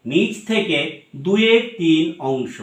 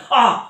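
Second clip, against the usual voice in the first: pained groan; 6 semitones higher, 3 dB louder than usual. Shown as a demonstration. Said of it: "যন্ত্রণা পেলে".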